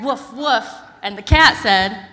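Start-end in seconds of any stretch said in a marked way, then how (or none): 0.0-0.7 loud barking woof; dog barking. Acted. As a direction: bark like a dog. Dog noise.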